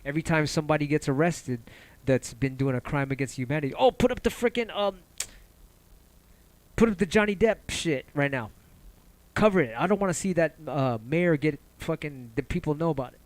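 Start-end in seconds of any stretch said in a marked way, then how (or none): 3.7-13.2 mock news boss. Media boss ordering a distraction clip, mocking panicky bark. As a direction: ham up a panicky newsroom boss.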